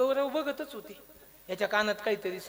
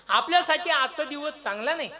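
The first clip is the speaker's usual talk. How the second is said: higher-pitched pronouncement; troubled declaration; 4 semitones higher than usual. Acted. Demon king reacts to the parrot's chant, troubled declaration. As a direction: announce it as bad news. Heightened second take of king's remark.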